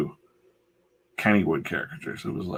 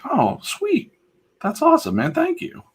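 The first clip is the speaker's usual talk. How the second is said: excited thanks. Retold or imitated. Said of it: "And I was like".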